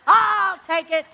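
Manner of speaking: a hint of a booming God taking over. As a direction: take charge of it, with a chuckle. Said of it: "And then God says".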